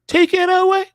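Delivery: "Taken away" cried out high and loud; emphatic cry. Real, not acted. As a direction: blast the warning at the listeners. Repeats the warning louder.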